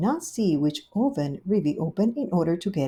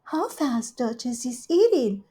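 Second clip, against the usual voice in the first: Rivy's voice; 6 semitones higher than usual. Acted. Rivy welcoming Duchess, high gushing hostess. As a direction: greet her sweetly and grandly.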